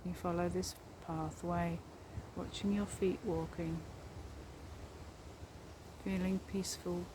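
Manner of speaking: calm meditation guide with long pauses; guided meditation. Real, not acted. Guiding listeners along a forest path, guided meditation voice. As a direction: lead them gently inward, leaving space after each phrase.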